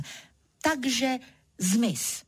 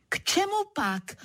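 plain reading voice

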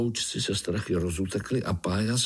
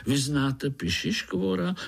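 curious little spider; 6 semitones higher than usual. Acted. Little spider asks frog.

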